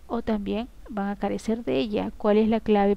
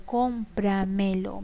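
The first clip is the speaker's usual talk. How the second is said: syllable by syllable; much slower than usual. Shown as a demonstration. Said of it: "Me y lo son pronombres que se han unido al verbo".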